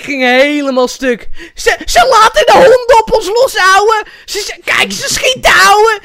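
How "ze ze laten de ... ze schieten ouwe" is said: high shouted street slang voice; Moroccan Dutch street slang. Retold or imitated. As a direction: yell it like a hyped street kid. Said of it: "Dave Roelvink".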